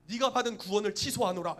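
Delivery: loud, imperious pronouncement; stern decree. Acted. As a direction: revoke it like an offended ruler. Acting out a stern divine decree.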